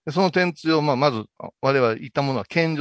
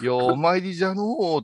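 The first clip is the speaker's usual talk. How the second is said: put-on condescending old monk; 4 semitones higher than usual. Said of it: "すっごい上から目線でさ".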